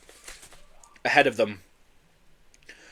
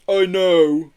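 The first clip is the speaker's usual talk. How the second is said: higher, louder, weary acknowledgement; sighed agreement; 5 semitones higher, 5 dB louder than usual. A narrator's reading. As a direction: sigh it, resigned. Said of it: "sighed Marbo".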